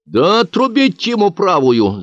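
a peasant woman yelling for the hand; woman shouting. Acted. A village woman shouts for the punishment, loud. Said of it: "закричала одна из баб".

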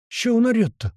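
high, stunned outburst. Acted. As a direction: blurt it out in shock. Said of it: "обалдел я".

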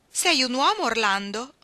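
loud, high question shouted back; astonished cry. A narrator's reading. Man suddenly suspecting his lover's sex, astonished shout. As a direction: shout it in disbelief. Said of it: "gridò lui".

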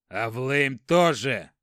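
sharp retort. Acted. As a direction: snap back at the brother. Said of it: "возразил старший брат". (громкое возражение)

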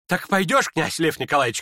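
ordinary delivery

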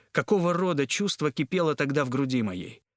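plain reading voice

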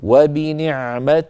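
drawn-out وبنعمة with weakened final i; stop with rawm. Shown as a demonstration. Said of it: "بتاء صوتها منخفض". (وبنعمة بتاء مكسورة منخفضة الصوت)

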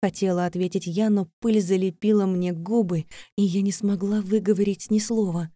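usual speaking voice

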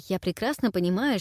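ordinary delivery, nothing marked

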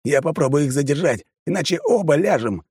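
high insistent yell; urgent shout. Acted. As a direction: shout the plan over gunfire. Guard insists under fire.

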